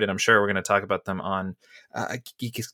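interrupted by a hiccup; words cut off by hiccups. Real, not acted. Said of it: "got the hiccups".

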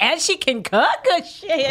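high, loud gushing fan voice; mock excited admirers. Imagined fan sliding into her DMs, gushing loud and high. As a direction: gush like a smitten admirer.

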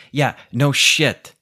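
slow, loud, scornful "no shit"; sarcastic retort. Real, not acted. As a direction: drip with sarcasm. Sarcastic reply to girlfriend.

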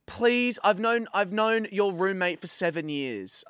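retold pleading. Retold pleading to get through.

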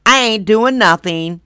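lazy whispered meh, slow; mock apathetic whisper. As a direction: shrug it off as a lazy bystander, whispered. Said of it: "apathetic people who basically would".

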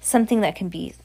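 put-on lightly accented, emphatic witch; lecturing witch. Voices the Grand High Witch.

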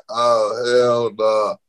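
drawn-out oh hell no; slow mock refusal. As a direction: stretch the refusal out slowly. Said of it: "I was like".

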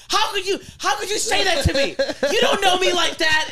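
put-on high hurt baby voice; Stewie whine. S0 imitating Stewie hurt by Brian in a high voice. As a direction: plead like a wounded toddler. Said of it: "He goes".

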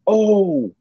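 high, slow, breathless awe; starstruck gasp. Retold or imitated. Nate, in a hospital bed, greets his childhood hero, high and slow with awe. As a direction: gasp his hero's name like a kid. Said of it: "And I went".

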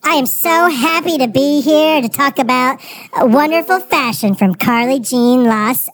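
lightly put-on bubbly fashion expert voice; fashion expert character. Podcast guest playing a fashion expert, lightly put-on bubbly voice. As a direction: sell it like a gushing influencer.

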